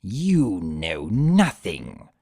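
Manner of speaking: low, slow snarl. Acted. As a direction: growl it through the bars. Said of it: "T-Rex snarled".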